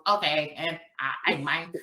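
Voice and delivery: mock botched Southern accent, a little low; alien's Southern accent. Alien guessing how Southern people talk, mock Southern accent. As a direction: imitate an outsider guessing at Southern speech. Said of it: "got an alien to come in".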